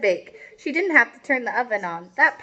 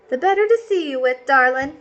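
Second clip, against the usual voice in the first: wolf as grandma; 3 semitones higher than usual. Acted. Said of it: "Señor Lobo said".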